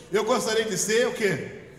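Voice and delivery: teasing sung-out question, loud; mock singsong echo. Pastor teasing wives who sang the line. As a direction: imitate the wives singing it back. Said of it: "cantou as esposas".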